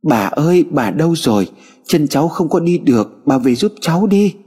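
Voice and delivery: put-on a scared little girl crying for grandma; frightened crying. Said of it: "Em bắt đầu sợ hãi mà khóc lóc".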